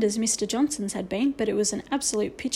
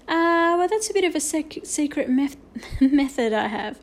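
suppressing laughter; 4 semitones higher, 3 dB louder than usual. Acted. Omri stifling laughter.

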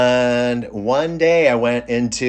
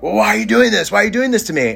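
aggrieved wail; 12 semitones higher, faster than usual. Retold or imitated. Upset cook demands why he does this, high mock wail. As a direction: plead like a wronged man, voice pitched right up.

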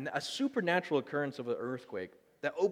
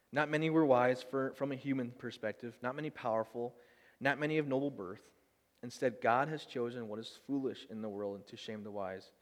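scripture reading. Acted. Pastor reading Corinthians to the congregation, measured scripture reading. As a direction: read the verses steadily to the congregation.

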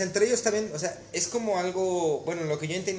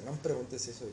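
tag; 5 semitones lower, 9 dB quieter than usual. Retold or imitated. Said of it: "la vieja se me queda viendo".

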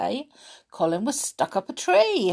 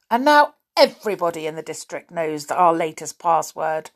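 disgust; 5 dB louder than usual. Acted. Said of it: "in disgust".

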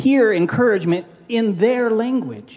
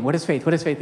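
Kenneth Copeland impression; 4 semitones lower, 4 dB quieter, faster than usual. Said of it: "You don't have to sound like Kenneth Copeland".

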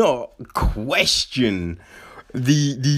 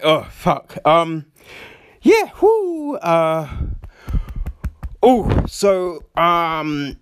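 gradually regaining composure; 2 semitones higher than usual. Acted. Showing how a really emotional speaker recovers, flustered and halting. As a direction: act collecting yourself bit by bit. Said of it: "when you're really emotional, it, I mean, it's a real thing".

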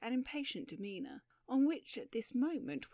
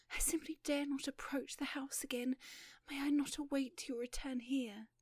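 frightened plea; 5 semitones higher than usual. Acted. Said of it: "cried the young lady".

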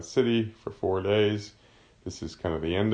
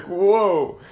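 Pilate panicking; 4 dB louder than usual. Retold or imitated. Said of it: "He's like".

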